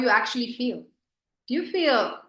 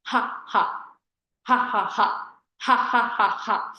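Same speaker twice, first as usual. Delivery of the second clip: demo laughter. Shown as a demonstration. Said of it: "you do this".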